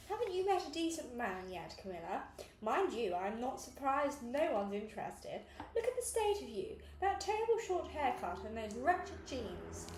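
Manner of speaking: lightly imitating her posh, nagging mother; piercing posh voice. Woman mimicking her snobbish mother's criticism, mock posh voice. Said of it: "She put on this piercing posh voice".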